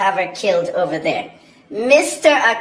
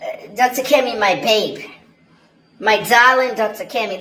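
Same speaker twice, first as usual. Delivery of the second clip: mock flirty fan. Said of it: "You can't just say".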